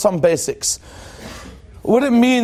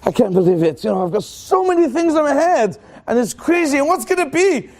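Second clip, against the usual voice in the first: higher, fretting voice, a mock panic; anxious morning worry; 5 semitones higher than usual. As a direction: play the worried soul, lightly overwhelmed. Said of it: "we wake up and we say".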